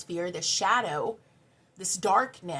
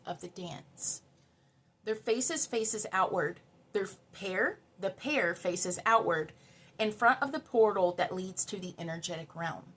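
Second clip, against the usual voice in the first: reading from the guidebook. Acted. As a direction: read the card's meaning gently. Reads card text from book.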